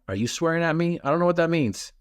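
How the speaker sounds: high, puzzled mock alarm; mock confused. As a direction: act baffled as if he insulted you. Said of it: "And I'm like".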